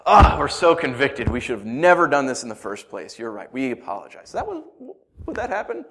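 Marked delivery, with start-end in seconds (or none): 0.0-4.3 sarcastic repentance. Pretend. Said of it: "Everyone's like".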